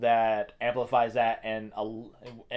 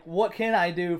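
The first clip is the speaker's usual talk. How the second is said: higher-pitched helpless plea; mock panic; 4 semitones higher than usual. Imagined player on the other side of the phone, mild mock panic. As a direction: lightly act out a stumped player.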